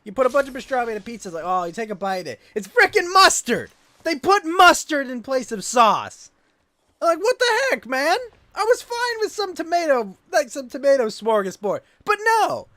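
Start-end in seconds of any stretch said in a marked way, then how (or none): 2.5-10.7 higher, louder exasperated ranting; outraged rant. Real, not acted. Streamer venting to chat about mustard pizza, loud outraged rant. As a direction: vent at the absurdity at full volume.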